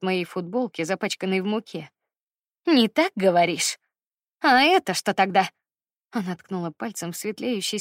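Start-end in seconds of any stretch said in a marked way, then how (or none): 2.7-5.5 mocking echo. Mother mockingly echoes denial.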